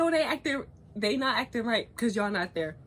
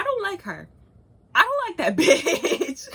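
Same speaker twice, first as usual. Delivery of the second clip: slow, louder line broken by a laugh; laughing dislike; 7 semitones higher, 8 dB louder, slower than usual. Real, not acted. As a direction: laugh through the insult. Laughing while venting about girl.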